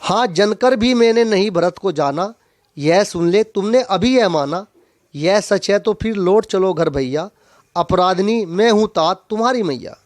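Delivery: measured, rhythmic poem reading; poetry read out to a class; verse recitation. Acted. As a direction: recite the couplets line by line. Recites poem verse before explaining it.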